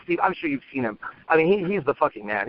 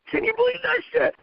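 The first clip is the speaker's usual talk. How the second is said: much higher, punchy, thrilled; excited storytelling. Shown as a demonstration. Coach showing an excited pickup in storytelling, much higher and thrilled. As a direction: pick it up like the best part of a story. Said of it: "I can pick it up when I get excited".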